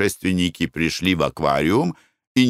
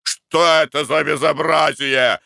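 shout; 6 semitones higher than usual. Acted. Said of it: "закричал Николай Иванович".

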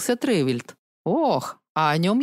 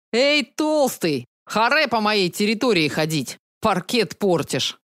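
mock provocation. Staged fight provocation.

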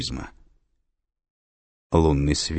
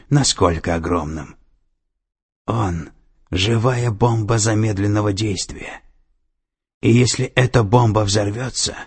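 stern official woman; 5 semitones higher, 4 dB louder than usual. A narrator's reading. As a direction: lay out the threat gravely. Sato warns Bellamy.

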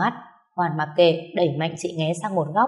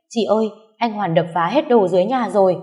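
alarmed call; 3 semitones higher, 5 dB louder than usual. Acted. Panicked phone call at midnight.

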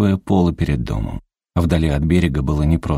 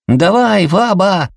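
put-on high, loud kid's yell; boy bellowing encouragement; child hollering; 5 dB louder, slower than usual. A narrator's reading. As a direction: cheer grandma on through cupped hands. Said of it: "завопил Мэнни".

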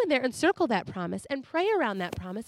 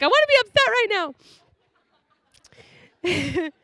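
high, louder indignant whine; mad child whine; 8 semitones higher, 5 dB louder than usual. Retold or imitated. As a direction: protest like a cross little kid. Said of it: "I was so mad".

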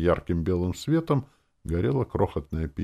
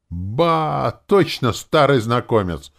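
higher and louder, gleeful "Ба!"; mock delighted recognition; 8 semitones higher, 7 dB louder, slower than usual. A narrator's reading. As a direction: greet an old victim with cruel glee. Герой узнаёт знакомца. (насмешливо-радостное узнавание, выше и громче)

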